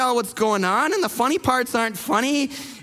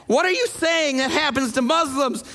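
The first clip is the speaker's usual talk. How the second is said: raised pitch, imitated indignant challenge; visibly upset; 4 semitones higher than usual. Retold Uber driver challenging his passenger, upset. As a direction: demand an explanation, mildly heated. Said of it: "he's getting visibly upset".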